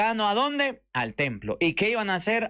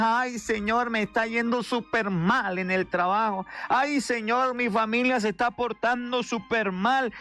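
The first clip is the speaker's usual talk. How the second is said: whiny complaining prayer; 3 semitones higher than usual. Retold or imitated. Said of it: "Nos convertimos en ese fariseo".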